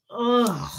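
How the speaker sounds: short disgusted "ugh"; retold groan of disgust. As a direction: groan it in revulsion. Acting out her past disgust.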